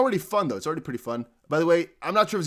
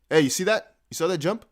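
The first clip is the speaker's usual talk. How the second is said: ordinary talk, nothing marked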